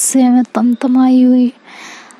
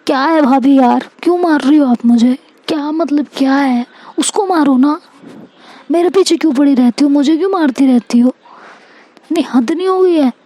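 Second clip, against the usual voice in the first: acted higher-pitched complaint, quickening; exasperated protest; 3 semitones higher, faster than usual. To bhabhi chasing her with a badminton racket, exasperated protest. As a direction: protest like you're being chased, without shouting.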